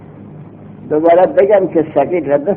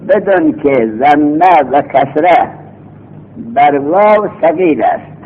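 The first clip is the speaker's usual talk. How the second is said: slow rule reading. Shown as a demonstration. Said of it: "قاعدتون".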